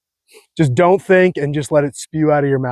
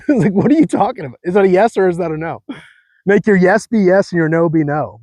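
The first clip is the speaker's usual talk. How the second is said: ordinary talk, nothing marked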